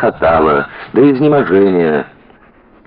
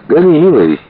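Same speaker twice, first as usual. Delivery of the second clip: higher, louder carefree order to the driver; breezy command; 11 semitones higher, 4 dB louder than usual. A narrator's reading. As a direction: toss the order off gaily. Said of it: "велела Лицкая кучеру".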